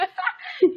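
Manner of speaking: bright burst of laughter; high laugh. Real, not acted. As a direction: laugh out loud. Laughing at own joke.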